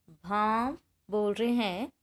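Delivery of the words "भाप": भाप said slowly, mouth open, vowel nasal; teacher demonstrating a chandrabindu word; slow nasal demo. Shown as a demonstration. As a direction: draw out भाप through mouth and nose. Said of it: "हमारा भी मुंह भी खुल रहा है".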